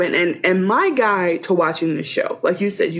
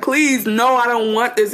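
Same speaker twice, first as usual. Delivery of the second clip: mildly raised pleading voice; mock panicked plea; 4 semitones higher than usual. Wife begging as she freaks out, mock plea. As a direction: imitate her begging, lightly panicked. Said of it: "She starts freaking out".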